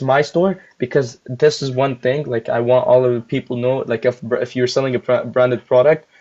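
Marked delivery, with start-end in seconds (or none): 2.2-6.1 talking while chewing gum; words slurred around gum; gum in mouth. Real, not acted. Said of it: "I have a gum in my mouth".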